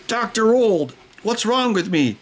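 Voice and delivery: a hammed-up worried patient; patient begging the doctor for help.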